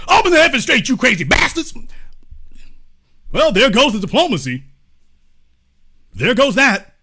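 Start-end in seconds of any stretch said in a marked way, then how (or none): 0.1-1.7 high-pitched mock shout; Trump. Leader wrecks careful diplomacy with a threat, sudden high mock shouting. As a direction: burst in with a hammed-up yelled demand. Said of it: "here comes Trump".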